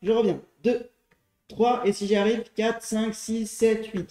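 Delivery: counting workout reps. Shown as a demonstration. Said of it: "Chaque coup de genou compte pour une répétition".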